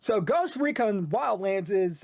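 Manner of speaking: lightly put-on caster voice; resume the esports announcer intro; a hint of match announcer; shoutcasting voice. Shown as a demonstration. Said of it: "in your shoutcasting voice".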